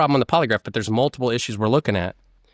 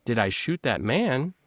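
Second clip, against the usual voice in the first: slower, softer echo of the question; stalling re-ask; 4 dB quieter, slower than usual. Retold or imitated. Suspect echoing the officer's question, slow and stalling. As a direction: stall for time by repeating it back. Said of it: "buying yourself time by re-asking the question".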